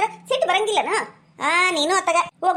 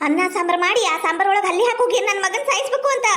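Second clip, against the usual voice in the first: mother-in-law's cursing tirade; ranting outcry; 2 semitones higher than usual. Acted. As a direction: rail at the daughter-in-law without letting up. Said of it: "ಯಾಕಷ್ಟು ಬಾಯಿ ಮಾಡಿ ಒದರಾಡ್ತೀರಿ".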